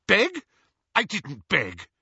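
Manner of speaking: high, stung protest; loud squawked question, then firm denial; indignant denial. A narrator's reading. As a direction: throw the word back in high outrage. Petunia stung by sister's accusation.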